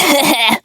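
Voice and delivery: short gloating chuckle; a nasty little laugh over his firewood; villain's laugh. Acted. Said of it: "he laughed".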